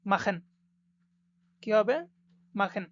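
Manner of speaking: মাখেন with a rough kh in the throat; মাখেন with ch as a scraped খ; German machen. Shown as a demonstration. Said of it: "খয়ের মতো উচ্চারণ হবে".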